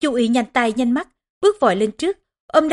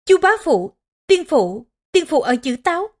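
understated narrated sobbing, raised pitch; halting, higher voice of a grieving boy; 4 semitones higher than usual. A narrator's reading. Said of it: "Hổ Nhi khóc nấc". (giọng cậu bé nghẹn nấc, cao)

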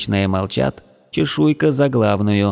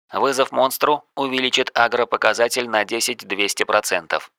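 system announcement. Acted.

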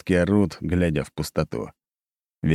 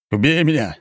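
high, louder desperate yell; 9 semitones higher, 4 dB louder than usual. A narrator's reading. Bogdan yells at the narrator to kill him. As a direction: scream it, begging. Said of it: "заорал он".

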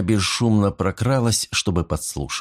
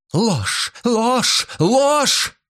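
raging screams; much slower than usual. A narrator's reading. Mrs Creel raging at the detective, screaming ever higher. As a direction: rage harder with every word. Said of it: "бушевала миссис Крил".

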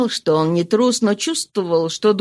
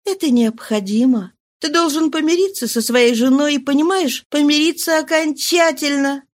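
higher, gently pleading woman; tender insistence; 4 semitones higher than usual. Acted. Mistress tenderly urges him to reconcile, higher. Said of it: "нежно продолжала настаивать".

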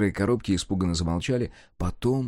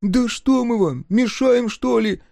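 slow, much higher whining complaint; whiny plea; 13 semitones higher, 3 dB louder, slower than usual. Acted. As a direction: whine like a wronged servant. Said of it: "плаксиво спросили".

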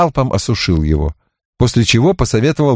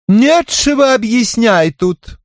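slow, high offended drawl; sulky mutter through teeth; slower than usual. A narrator's reading. Tipsy Zorka snapping back at Barrett, slow offended drawl. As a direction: sulk it out word by word. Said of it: "обиженно процедила Зорка".

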